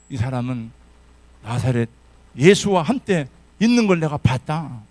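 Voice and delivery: loud accusing cry; accusing servant. Acted. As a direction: shout it to the bystanders.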